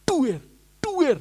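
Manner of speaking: two slow, falling "duer" thuds; drawn-out imitation of distant bangs; imitated banging. Pastor hears banging from the gate, imitated banging. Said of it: "saya sudah dengar suara".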